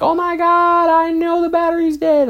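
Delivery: exasperated coworker. Retold or imitated. Coworker sick of the battery joke, whining. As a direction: whine it like she's fed up. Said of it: "she's just like".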